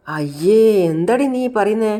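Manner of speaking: shocked reproach. Acted. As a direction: react aghast at what she says. Acted shocked scolding in story.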